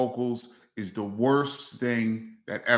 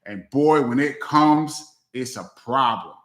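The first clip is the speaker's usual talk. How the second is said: imitating Chris; 4 dB louder than usual. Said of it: "He said".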